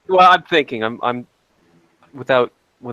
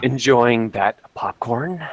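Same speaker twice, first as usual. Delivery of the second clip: unhinged villain; slower than usual. Acted. Horror phone caller role.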